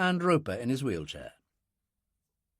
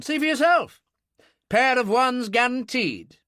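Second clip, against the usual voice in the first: challenging military man; 10 semitones higher, 5 dB louder than usual. Acted.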